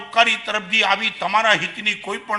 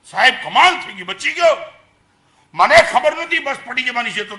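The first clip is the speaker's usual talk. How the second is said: put-on higher, excited relief of a young man; excited boy; 3 semitones higher than usual. Boy tells the monk he escaped, excited. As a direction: blurt out amazed relief.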